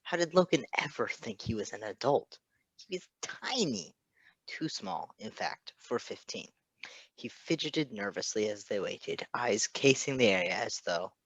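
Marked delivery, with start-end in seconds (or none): 2.8-6.5 hushed, breathy aside; whispered aside. Acted. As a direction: drop to a secret whisper.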